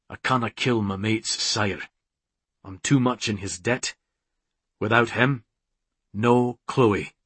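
a hint of a burred Scots hero; understated, resigned Scots voice; lightly voiced Scottish clansman. McCreeve explains sparing his mate's sire, lightly voiced Scot.

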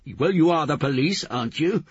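high, loud shouted accusation; angry accusation. A narrator's reading. Gonja blaming the policeman, shouting angrily. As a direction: fling it at them, shouting. Gonja cuts off his protest.

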